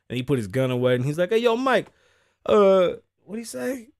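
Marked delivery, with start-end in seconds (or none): 1.3-3.9 much higher, louder mock voice; imitating the fan. Fan calls out to Mike Tyson, high put-on voice. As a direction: play the fan in a squeaky put-on voice.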